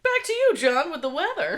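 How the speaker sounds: high bright anchor handoff; news anchor voice. Pretend. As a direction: sign off like a TV anchor. Parody news anchor sign-off.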